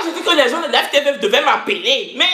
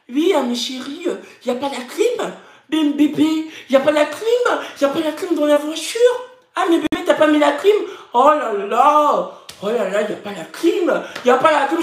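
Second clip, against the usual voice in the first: higher-pitched, put-on whitewashed French accent; mock her whitewashed French, whining on high; 6 semitones higher than usual. Imitating a reality star moaning about air conditioning, whitewashed French accent. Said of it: "Elle était toujours comme ça".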